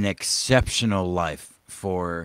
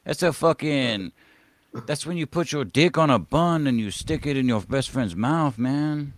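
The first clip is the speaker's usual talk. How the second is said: clumsy Hispanic accent put on for a laugh; bad Hispanic accent; 6 semitones higher, 3 dB louder than usual. Joking with stream cohosts about long pig, in a poor mock Hispanic accent. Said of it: "I should be better at the fucking Hispanic accent".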